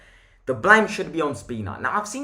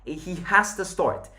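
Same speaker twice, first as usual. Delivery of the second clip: higher pitch, leaning on "has"; stress on "has"; 4 semitones higher than usual. Real, not acted. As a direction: insist with the weight on "has". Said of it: "Emphasis on that has".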